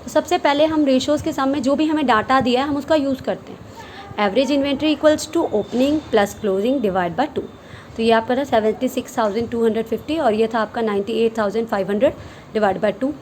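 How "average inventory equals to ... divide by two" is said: slow dictation. Shown as a demonstration. Dictating formula to students.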